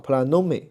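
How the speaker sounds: "planome" slowly, stressing the "no"; stress on second-last syllable. Shown as a demonstration. Teacher explaining the circumflex rule to students, stressed "no" in "planome". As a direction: lean on "no" in "planome". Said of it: "第二个音节".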